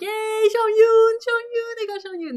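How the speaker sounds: loud high yay, easing off; excited cheer. Retold or imitated. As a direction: celebrate a lucky win, stretching the first words. Cheers at getting wanted character.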